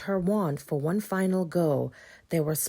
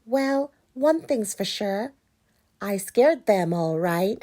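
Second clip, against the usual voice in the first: pumpkin voice; 4 semitones higher, 3 dB louder than usual. Acted. Chris delighted.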